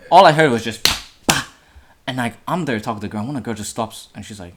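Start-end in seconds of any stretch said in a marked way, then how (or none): 0.8-1.4 unvoiced-style puffs for landing blows; imitated punching noises. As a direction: mimic the thud of punches.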